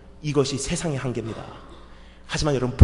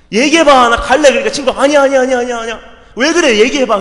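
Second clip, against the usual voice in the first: loud and high, exasperated; impatient yelling; 10 semitones higher, 12 dB louder than usual. Retold or imitated. Pastor at 1:30am demanding his friend speak, loud. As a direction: yell it at a friend who won't talk.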